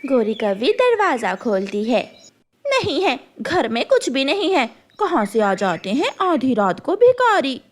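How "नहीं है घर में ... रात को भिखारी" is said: dismissive, scornful crow voice; rude crow wife. Acted. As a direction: shut the beggar out. Crow wife refuses the bird.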